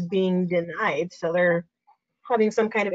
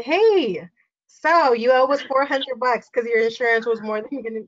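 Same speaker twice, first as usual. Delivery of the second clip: mock breezy bill collector; 3 semitones higher than usual. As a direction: imitate a lender cheerfully announcing a shortfall. Voices the escrow statement's bad news.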